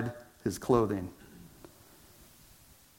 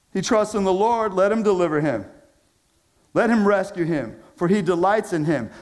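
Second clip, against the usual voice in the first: mocking; 5 semitones higher than usual. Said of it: "All who see me mock me".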